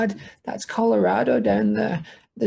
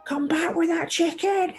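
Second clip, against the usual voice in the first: fox voice; 10 semitones higher, 4 dB quieter than usual. Acted. Fox grabbing chicken.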